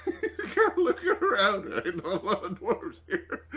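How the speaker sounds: words broken up by laughter; cracking up mid-sentence; laughing. Real, not acted. Player cracking up at table.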